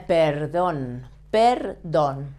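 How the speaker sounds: PERDÓN said slowly with a lightly vibrated R; tongue-tip R. Shown as a demonstration. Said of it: "you have this sound".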